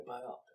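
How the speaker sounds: biopic said softly as bye-OP-ick; short O in biopic, stressed in the middle. Retold or imitated. Host guesses why others say it, biopic as bye-OP-ick. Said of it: "Maybe it's 'cause they say biography".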